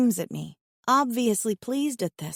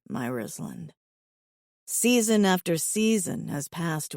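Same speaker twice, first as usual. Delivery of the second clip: tender, longing and low; yearning; 5 semitones lower than usual. Acted. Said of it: "full of yearning".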